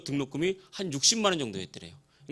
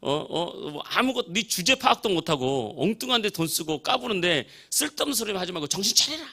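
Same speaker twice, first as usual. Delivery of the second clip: imitated Gyeongsang dialect rant, mildly raised; Gyeongsang dialect scolding; 3 semitones higher than usual. Drinking uncle telling nephew off, mock scolding in Gyeongsang dialect. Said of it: "경상도 사투리로 막 술 먹다 막".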